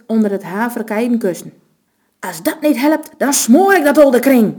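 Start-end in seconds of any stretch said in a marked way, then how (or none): 2.2-4.5 loud, higher snarled threat; a robber raging over the old woman. A narrator's reading. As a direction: spit the threat out in fury. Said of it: "roosde Matthijs met een vertrokken gezichte".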